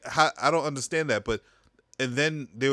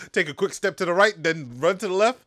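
laughing; 6 semitones higher, 6 dB louder than usual. Real, not acted. Laughing while coaching the juke.

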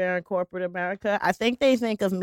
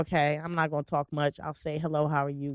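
softer, slightly lower polite reserve; quiet, guarded; 4 semitones lower, 7 dB quieter, faster than usual. Retold or imitated. Sizing up the vibe in a new room, quiet and guarded. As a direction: keep it small and polite. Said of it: "I might be quiet until I catch the vibe".

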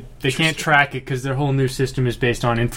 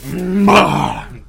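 mock wrestling move sound; 5 semitones higher, 5 dB louder than usual. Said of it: "if you didn't quite get that sound".

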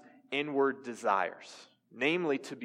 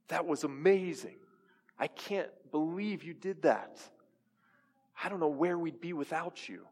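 flattering voices; 2 semitones higher than usual. Retold or imitated. Churchgoers flatter the pastor, lightly raised and gushing. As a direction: play the admirers fawning over him. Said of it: "I love the praise of men".

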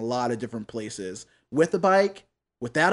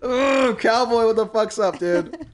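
excited; 13 semitones higher, 6 dB louder, slower than usual. Real, not acted. Host hyped greeting the cowboy.

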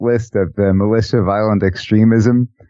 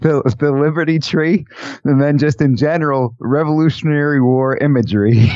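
suppressed laughter; 3 semitones higher than usual. Real, not acted. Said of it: "I'm trying not to laugh".

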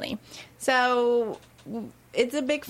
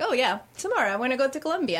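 breezy carefree quote; 3 semitones higher, much faster than usual. Retold or imitated. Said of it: "it is not like".

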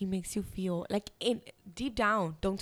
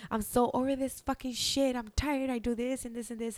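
higher-pitched exasperated venting, no real crying; retold tearful outburst; 4 semitones higher than usual. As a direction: re-enact being at the end of your rope. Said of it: "I started crying and telling him".

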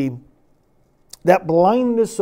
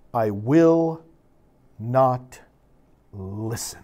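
grave solemn reading; slower than usual. Acted. The scariest verse, read gravely.

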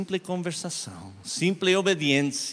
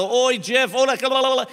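desperate; 10 semitones higher, 6 dB louder than usual. Retold or imitated. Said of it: "Eu estava desesperado".

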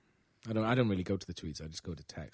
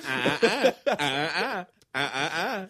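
scolding finger; 5 semitones higher, 5 dB louder, slower than usual. Retold or imitated. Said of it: "a finger going".

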